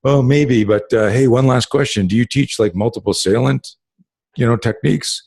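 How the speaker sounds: sly smirking question. Retold or imitated. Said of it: "And one of them said".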